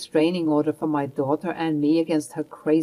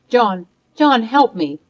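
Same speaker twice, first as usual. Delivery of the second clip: high, louder call for her son; pleading for help; 4 semitones higher, 6 dB louder than usual. Acted. Grandmother begging her son John for help, desperate call. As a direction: cry out to him in desperation.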